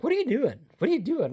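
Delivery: high, questioning cat voice. Pretend. Owner voicing her cat watching her struggle, high and curious. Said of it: "She's like".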